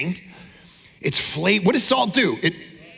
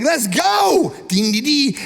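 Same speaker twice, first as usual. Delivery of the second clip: lively worship call; 5 semitones higher, slower than usual. Retold or imitated. Jamaican worshippers starting worship, cheering and singing. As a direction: bring the room to life. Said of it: "It's like".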